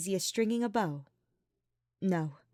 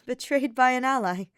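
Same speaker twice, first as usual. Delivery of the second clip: weak laugh; 5 semitones higher, 6 dB louder than usual. A narrator's reading. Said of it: "with a weak laugh".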